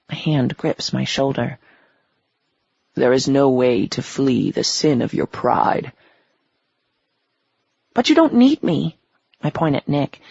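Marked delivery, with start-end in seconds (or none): 2.9-5.9 a lightly lowered, menacing devil. Acted. Devil character voice. 7.9-9.0 high, loud and desperate; panicked plea. Acted. Melanie begging the devil, high and frantic.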